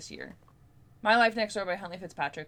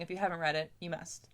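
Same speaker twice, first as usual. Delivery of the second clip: ordinary talk, nothing marked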